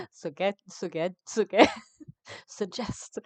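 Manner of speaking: giggling while repeating suggest; laughing fit over a tricky word; laughing through it. Real, not acted. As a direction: keep cracking up on the word suggest. Struggling to say a word.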